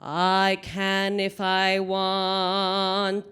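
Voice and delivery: fuller voice. Shown as a demonstration. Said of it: "Fill up my hand first".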